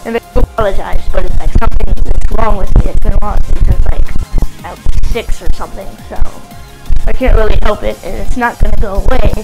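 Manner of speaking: blocked nose, nasal voice; stuffy nose. Real, not acted. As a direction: talk through a stuffed-up nose. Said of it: "it might sound like my nose is stuffed".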